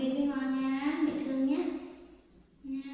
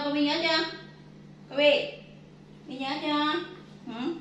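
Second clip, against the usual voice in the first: stern scolding; 3 semitones higher than usual. Real, not acted. Scolding child by name.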